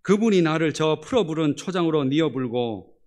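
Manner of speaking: loud Jeolla accent opening on a high 아따; Jeolla dialect. Shown as a demonstration. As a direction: read it like a lively Jeolla local. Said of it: "마지막 전라도 버전으로".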